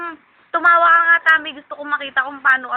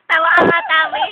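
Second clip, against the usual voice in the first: laughing; 3 semitones higher than usual. Real, not acted. Host laughing while asking.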